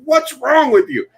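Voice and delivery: high mocking troll recoiling; disgusted troll voice. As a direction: drag it out like a repulsed stranger. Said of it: "they're like".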